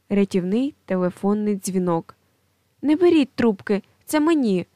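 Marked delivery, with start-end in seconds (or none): 2.8-4.6 loud, high cry to grab the phone; exclaiming. Acted. Office worker shouts across the room, loud and high. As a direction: call out so nobody else answers. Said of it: "вигукує один стіл".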